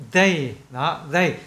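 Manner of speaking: "they" with the tongue tip at the upper teeth. Shown as a demonstration. Teacher showing tongue placement, careful TH in "they". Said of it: "các bạn đưa cái đầu lưỡi lên cái gốc hàm răng trên".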